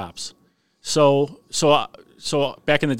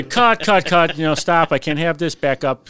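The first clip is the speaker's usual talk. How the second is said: higher, louder cut cut stop; imitating the director; 4 semitones higher, 5 dB louder than usual. Ron Howard stopping the take, mock yelling cut. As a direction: call cut like a fed-up director.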